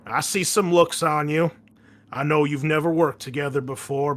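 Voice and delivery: a hint of a drill-sergeant commander; Hatfield's briefing. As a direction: dress down the recruits like a Marine colonel. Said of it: "eventually Hatfield continues".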